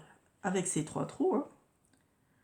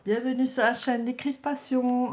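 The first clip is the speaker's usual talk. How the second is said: bright, much higher and louder hello to viewers; cheery channel greeting; 7 semitones higher, 7 dB louder than usual. Real, not acted. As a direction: greet the audience with a big upbeat welcome. Accueil enjoué de la chaîne. (accueil enjoué, plus aigu et plus fort)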